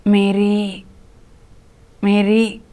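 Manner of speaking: sweet tender call. A narrator's reading. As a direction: call her gently, like a loving teacher. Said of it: "ఆ పిలుపులోని తీయదనాన్ని". (ప్రేమగా, మృదువుగా పిలుపు)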